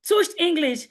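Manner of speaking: faked English accent, drawn out; touched English accent. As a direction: affect a slow, polished English accent. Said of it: "you begin to fake your voice".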